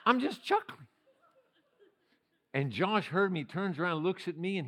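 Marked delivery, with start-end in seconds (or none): 0.0-0.9 chuckling. Real, not acted. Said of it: "I just start chuckling".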